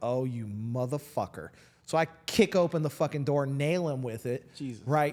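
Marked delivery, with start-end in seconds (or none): 0.0-1.5 put-on angry voice, slower. Speaker recounting a driver yelling at them, retelling own angry reaction. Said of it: "my hormones are like dialed way hot".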